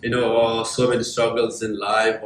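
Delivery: low, soft, subdued monotone; acted self-pitying list, low and quiet; negative self-talk. Imagined self talking himself out of trying, low defeated monotone. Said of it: "if I've been thinking negatively".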